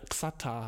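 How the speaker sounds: Xata with a hard ks at the start; spelled with X. Shown as a demonstration. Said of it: "aber es wird Chata ausgesprochen".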